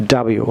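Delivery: ডাব্লিউ clipped to "dabiu", American style; American pronunciation. Shown as a demonstration. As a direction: say ডাব্লিউ short as "da-biu". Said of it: "American English এটিকে".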